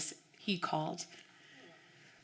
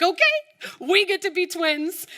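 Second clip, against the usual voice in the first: excited; 10 semitones higher, 5 dB louder than usual. Retold or imitated. Excited about matching outfits.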